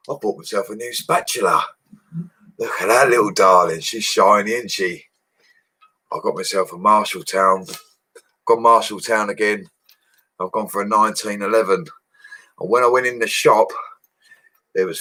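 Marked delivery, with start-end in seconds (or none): none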